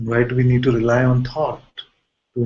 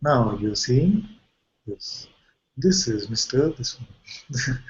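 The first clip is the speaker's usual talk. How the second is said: slow, drawn-out commentator voice; narrator voice; 4 dB quieter, much slower than usual. Retold or imitated. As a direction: narrate slowly like an old movie narrator. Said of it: "constantly saying".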